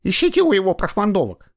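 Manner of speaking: a jealous wife lashing out; bitter wife. A narrator's reading. Обиженная жена о любовницах мужа. (обиженная жена, громко и высоко)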